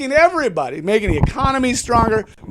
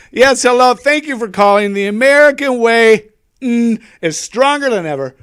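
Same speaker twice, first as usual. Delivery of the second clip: talk show host; 2 semitones higher, 4 dB louder than usual. Acted. Mock talk-show host taking calls.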